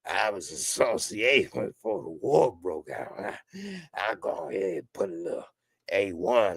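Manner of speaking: lightly voiced sauce lover, relishing every word; Mister Thorne. A friend imitated boasting about his sauces, lightly voiced and relishing. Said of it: "you say".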